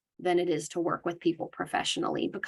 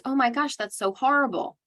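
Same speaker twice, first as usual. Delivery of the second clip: higher, gushing sympathy; sympathetic validation; 5 semitones higher than usual. Shown as a demonstration. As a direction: sound shocked and on their side. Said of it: "we're going to validate their experience".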